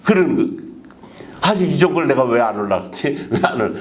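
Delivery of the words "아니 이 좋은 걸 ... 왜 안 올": laughing. Retold or imitated. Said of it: "그랬다고 얘기하는 게 나오거든요".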